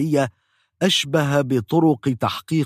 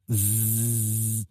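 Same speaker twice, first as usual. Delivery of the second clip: drill buzz; 6 dB quieter, much slower than usual. Retold or imitated. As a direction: drone like a dental drill. Drill again.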